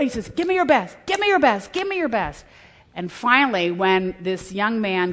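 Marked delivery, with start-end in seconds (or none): 0.3-2.4 higher urgent coaxing; urging coach. Retold or imitated. Coach spurs exhausted player on, higher and urgent. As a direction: spur him on.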